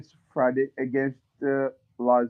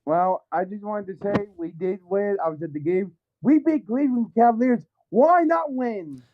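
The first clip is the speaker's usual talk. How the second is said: phone held away; 4 semitones higher than usual. Real, not acted. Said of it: "why does your phone sound muffled?".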